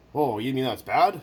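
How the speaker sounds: slow dopey innocent question; naive mock question. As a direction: act the clueless guy. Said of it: "I'm like".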